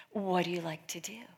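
the Lord's question hushed to a whisper. Retold or imitated. Quoting the Lord's gentle question to the girl, whispered. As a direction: breathe the question softly.

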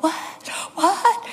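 second what leaps high; acting out dumbfounded parents, "what?" squeaking upward; incredulous rising question; stunned disbelief. Parents stunned by revived daughter.

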